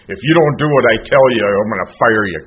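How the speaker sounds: imitating a domineering sponsor; mock aggressive demand. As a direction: bark the ultimatum like a bossy old-timer. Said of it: "this aggressive crap".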